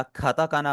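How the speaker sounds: खाताकाना with an aspirated kh at the start; खाताकाना, first kh aspirated; initial kh. Shown as a demonstration. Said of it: "शुरू में, खा की आवाज".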